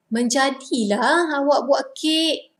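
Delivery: pleasantly surprised Menjadilah awak buat kek; impressed by the friend's cake; surprised praise. Shown as a demonstration. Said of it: "it's like surprise".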